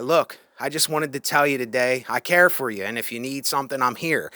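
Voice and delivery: understated, sincere reassurance; genuine care. Acted. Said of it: "genuinely express that".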